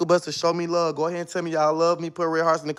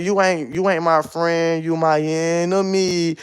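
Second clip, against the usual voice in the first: slow, deliberately calm and even; calmest voice; 2 semitones lower, slower than usual. Real, not acted. Streamer calmly tells a rival on live, slow and even. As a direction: keep it cool and measured while calling her an enemy. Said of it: "in the most calmest voice I can say".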